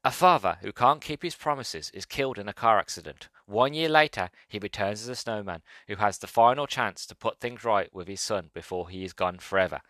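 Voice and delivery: lightly voiced trailer announcer; a hint of film-trailer narration, falling in pitch towards the end; movie guy voice. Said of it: "movie guy voice".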